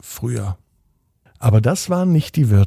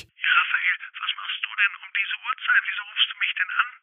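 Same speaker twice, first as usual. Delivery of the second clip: higher, softer, rushed aunt voice; a startled aunt on the phone, hurrying; aunt woken late by a phone call, surprised; 9 semitones higher, 7 dB quieter, much faster than usual. Acted. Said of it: "Tante Uschi wunderte sich".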